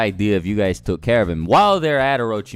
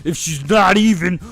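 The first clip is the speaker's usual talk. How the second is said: mock outraged yell; 8 semitones higher, 7 dB louder than usual. Sarada confronts Naruto, acted quote.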